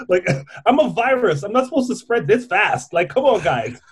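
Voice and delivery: cute germ voice. Retold or imitated. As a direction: tease like a smug little germ. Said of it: "covid is like".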